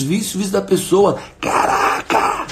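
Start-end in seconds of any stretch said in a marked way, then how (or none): 1.4-2.5 long stretched high cry of amazement; a stretched-out, very high wow; amazed exclamation. Real, not acted. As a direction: let it burst out, drawn out and high. Surprised exclamation mid-sermon.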